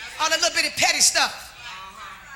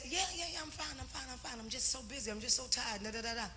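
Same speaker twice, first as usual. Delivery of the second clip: tired brush-off; 5 semitones lower, 19 dB quieter than usual. Retold or imitated. Husband voiced brushing her off.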